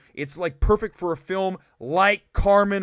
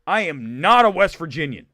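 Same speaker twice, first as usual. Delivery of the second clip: mock fighting words; 4 semitones lower than usual. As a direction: drop low, squaring up for a fight. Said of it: "I'd be like".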